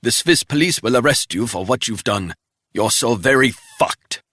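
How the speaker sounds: mock him from the ground; sneering captive. Wounded spy taunting Resnick with a sneer.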